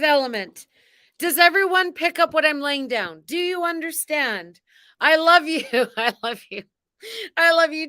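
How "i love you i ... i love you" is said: gushing love. Acted. Gushing to viewers.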